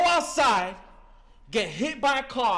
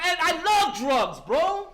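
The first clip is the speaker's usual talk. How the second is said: emphatic confession; 4 semitones higher, slower than usual. Real, not acted. Confessing to the meeting.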